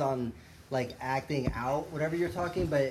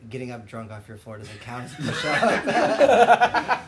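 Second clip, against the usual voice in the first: mock scolding shout; 10 dB louder, slower than usual. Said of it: "I said".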